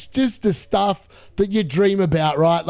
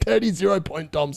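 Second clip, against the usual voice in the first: corrects the name through a laugh; laughing correction. Shown as a demonstration. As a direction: fix the nickname while laughing.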